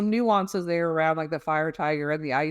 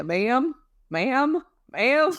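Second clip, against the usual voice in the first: rising calls; 7 semitones higher, much slower than usual. Retold or imitated. Dispatcher on the phone raising voice to reach a frantic caller. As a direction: call for attention over the line.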